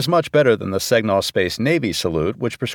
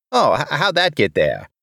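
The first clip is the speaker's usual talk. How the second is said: higher, stammering surprise; flustered embarrassment; 5 semitones higher than usual. Acted. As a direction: stumble over it, caught out and embarrassed. Caught with embarrassing picture, flustered.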